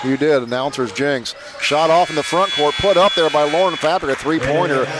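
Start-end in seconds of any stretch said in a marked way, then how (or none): 1.6-4.8 excited call. Real, not acted. Buzzer shot ends first half.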